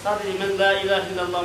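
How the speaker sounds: Uyghur speaker's halting Turkish; hesitant non-native Turkish; foreigner broken turkish. Real, not acted. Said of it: "benim Türkçem iyi değil".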